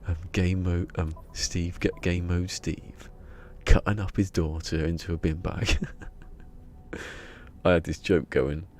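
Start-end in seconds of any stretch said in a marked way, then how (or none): 0.1-5.8 David Attenborough impression. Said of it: "David Attenborough".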